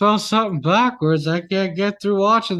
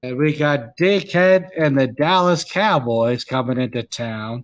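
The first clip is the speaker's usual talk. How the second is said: Howard Cosell; 2 semitones lower than usual. Acted.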